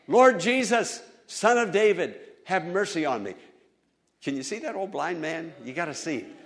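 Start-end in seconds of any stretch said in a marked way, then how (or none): 0.1-3.3 loud high plea, fading at the end; crying out. Retold or imitated. Blind man crying out to Jesus for mercy. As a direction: call out for mercy. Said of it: "blind Bartimaeus cried out".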